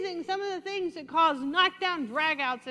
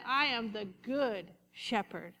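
slow, softer, lower voice of Jesus; gentle Jesus voice; 5 semitones lower, 5 dB quieter, slower than usual. Retold or imitated. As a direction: calmly reassure as the good shepherd. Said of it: "And Jesus said".

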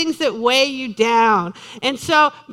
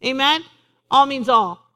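usual speaking voice

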